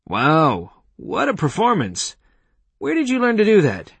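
amazed, high-pitched gushing over a performance; excited praise. Acted. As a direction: gush with impressed delight, pitch leaping up. Praising the dog's act.

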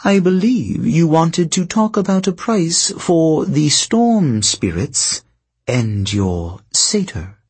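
lightly voiced sly sorceress; silky, knowing queen telling her tale; scheming princess voice. Princess bargains.

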